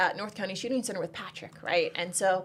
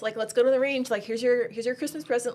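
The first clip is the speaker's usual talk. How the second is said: louder, higher, eager pitch; excited gift pitch; 4 semitones higher, 6 dB louder than usual. Retold or imitated. Aunt pushing pepper spray on the women in her life, excited. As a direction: sell it like a Christmas surprise.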